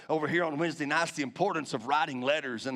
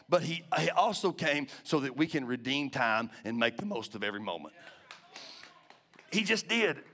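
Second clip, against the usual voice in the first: crying; 5 semitones lower than usual. Real, not acted. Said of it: "I'm crying".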